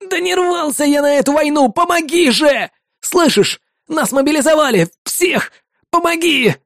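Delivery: high, desperate, breaking shouts; frantic pleading. Acted. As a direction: beg for his life.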